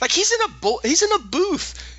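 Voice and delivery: high-pitched, laughing disbelief; laughing incredulity. Real, not acted. Co-host pictures voice actor costumed in booth, laughing and incredulous. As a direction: pitch climbs high as the absurdity cracks you up.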